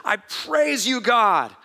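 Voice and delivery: lifted, mildly excited voice of praise. Retold or imitated. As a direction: imitate someone rejoicing in prayer. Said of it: "Jesus got excited".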